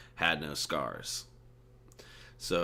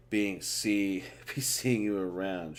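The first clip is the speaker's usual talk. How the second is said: snickering; 3 semitones higher, slower than usual. Acted. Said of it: "she snickered".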